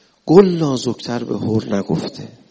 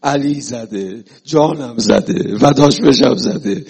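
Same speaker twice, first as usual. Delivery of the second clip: slow, swelling, tearful praise; grieving thief praising his master, growing louder; crying devotee; 3 semitones lower, 5 dB louder than usual. Acted. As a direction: let the love break through the tears.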